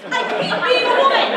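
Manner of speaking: furious high shout; yelling. Acted. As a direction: scream it out in frustration. Outburst in monologue.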